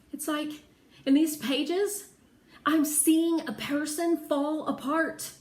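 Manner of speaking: put-on girl moved to tears by the diary; tearful emotion. A narrator's reading. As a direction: push through rising tears. Tears come while reading.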